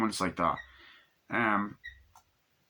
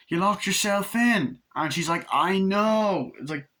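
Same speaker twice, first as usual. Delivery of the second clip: put-on high girl voices; 8 semitones higher than usual. Voicing girls at window.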